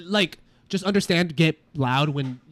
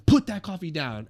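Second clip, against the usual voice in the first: raised voice demo; 3 semitones higher, 6 dB louder than usual. Shown as a demonstration. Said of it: "all you raise your voices to".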